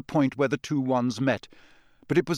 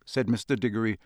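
stern official; 6 semitones higher, 3 dB louder than usual. Acted. Diggory interrogating the elf.

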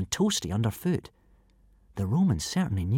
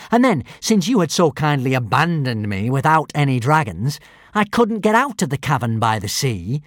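villain; 3 dB louder than usual. Acted. Alvin's furious villain tale.

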